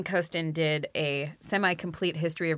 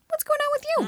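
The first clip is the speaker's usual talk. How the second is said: dispatcher voice; faster than usual. Pretend. Acting out a 911 dispatcher.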